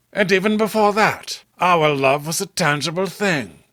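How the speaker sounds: a touch of romantic fervour; Robert in love. Acted. Robert declaring love to Diana, lightly impassioned.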